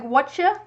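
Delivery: "Whatcha?" run together as one word, rising; casual whatcha. Shown as a demonstration. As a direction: say "Whatcha?" squashed into two syllables. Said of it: "I say, like".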